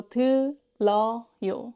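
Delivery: 들어요 split as deu, reo, yo; linked ㄹ demonstration. Shown as a demonstration. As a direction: separate the syllables of 들어요 with ㄹ opening the middle one. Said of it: "This 러 between them".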